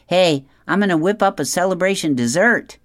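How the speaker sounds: cool way. A narrator's reading. Friend promising the expectant parents secrecy, cool way. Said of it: "says in his cool way".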